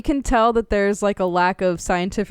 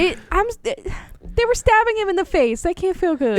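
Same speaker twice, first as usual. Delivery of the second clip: indignant; 11 semitones higher than usual. Real, not acted. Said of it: "we got the activist over here".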